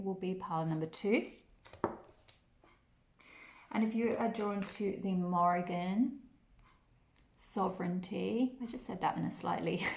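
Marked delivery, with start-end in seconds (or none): 3.7-8.5 a slip into a faint foreign accent on the Morrigan sovereignty; slight unplanned accent. Real, not acted. Reader introducing the Morrigan pile, faint accent. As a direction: let a hint of an accent creep in unplanned. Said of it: "in a bit of an accent".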